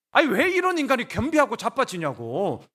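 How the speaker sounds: high, loud exasperation; exasperated protest. Acted. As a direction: protest as if it makes no sense at all. Acted protest at the king's repentance.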